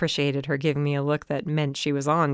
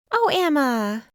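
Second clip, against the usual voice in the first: gasped; 10 semitones higher, slower than usual. A narrator's reading. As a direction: gasp out her name in alarm. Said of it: "Holly gasped".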